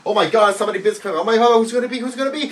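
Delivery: mock hype. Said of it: "when they were saying".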